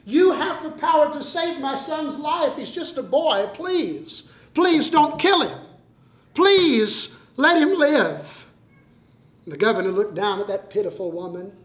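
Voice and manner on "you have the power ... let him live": higher, begging mother; mother weeping at the governor's feet, higher and begging; acted pleading cry. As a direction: plead through tears for her son's life. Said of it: "she cried and said".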